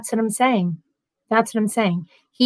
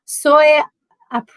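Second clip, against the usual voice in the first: whisper; 5 semitones higher, 4 dB louder than usual. Shown as a demonstration. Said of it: "let me try".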